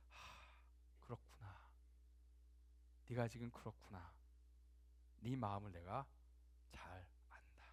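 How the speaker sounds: low, soft, tender sympathy; sigh, then console with long pauses; hushed compassion, fading to a near whisper; gentle understanding. Acted. Acts Jesus understanding, against the scolding.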